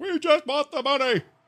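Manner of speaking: high-pitched, movie villain style yelling. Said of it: "he yells".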